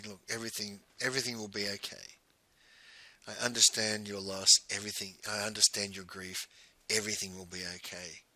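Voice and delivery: hushed, tender comfort; calm her down gently; soft soothing. Retold or imitated. Patting the crying woman's shoulder and soothing her softly.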